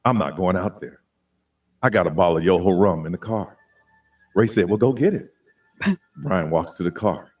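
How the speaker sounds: very low electronic bass narration; deep bass voice changer. Pretend. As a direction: tell the tale through a deep voice changer. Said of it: "a little more deep bass".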